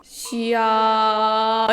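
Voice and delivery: long, drawn-out chest-voice call; full-voice pee call. Shown as a demonstration. Mom showing her pee-calling trick. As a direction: hold the word out in full voice. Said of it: "진성으로 합니다".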